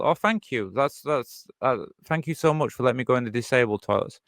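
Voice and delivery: dry, overdone gratitude; sarcastic thanks. Retold or imitated. Answering staff who offer the disabled toilet, sarcastically. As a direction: thank them with heavy sarcasm.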